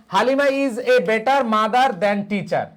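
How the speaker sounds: every word drawn out slowly; measured example sentence read at dictation pace. Shown as a demonstration. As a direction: read it out slowly for students to copy. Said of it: "যেমন".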